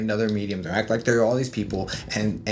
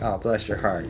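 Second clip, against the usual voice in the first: sincere bless your heart. Shown as a demonstration. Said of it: "actually meaning it and being sweet".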